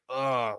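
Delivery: drawn-out groan of secondhand embarrassment; mild, imitated cringe groan; cringing "ugh". Reacting to a cringy comedy character, cringing groan.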